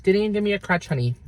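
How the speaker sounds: "Didn't" jumps high, then falls on "honey"; high disbelieving punch. Shown as a demonstration. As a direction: lift it up in sassy disbelief. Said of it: "Are you ready for that?".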